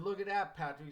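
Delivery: father nudging his son to look; eager pointing out. Retold or imitated.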